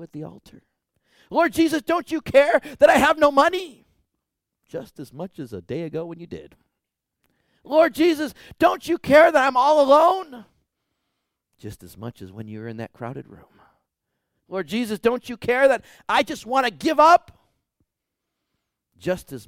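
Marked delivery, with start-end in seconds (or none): 1.3-3.9 much higher and louder pleading cry; desperate plea. Retold or imitated. Preacher voicing a sick believer crying out to Jesus, pleading. 7.6-10.4 much higher and louder pleading cry; desperate plea. Retold or imitated. Preacher voicing a sick believer crying out to Jesus, pleading. 14.5-17.4 much higher and louder pleading cry; desperate plea. Retold or imitated. Preacher voicing a sick believer crying out to Jesus, pleading.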